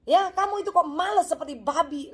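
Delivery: hammed-up cross mum in the morning; mock angry mother. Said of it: "marah-marah pagi-pagi".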